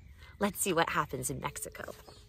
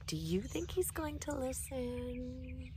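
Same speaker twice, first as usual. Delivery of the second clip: soft aside; 5 semitones higher, 9 dB quieter, slower than usual. Acted. Host aside to kids, hushed.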